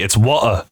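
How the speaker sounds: "water" as "wa'uh", T left out; dropped T. Retold or imitated. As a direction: imitate "water" with no T and no R. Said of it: "They don't even pronounce the T".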